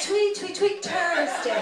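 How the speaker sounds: chirped Irish impression, slowing on the last word; birdlike Irish accent. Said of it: "everybody sounds like a bird to me".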